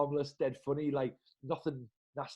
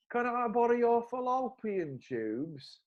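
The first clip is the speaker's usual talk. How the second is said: innocent ask; 10 semitones higher, slower than usual. Retold or imitated. Retold innocent request, punchline.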